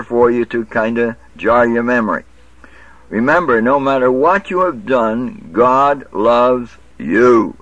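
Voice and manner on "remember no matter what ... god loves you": mock TV preacher. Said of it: "That's what they say".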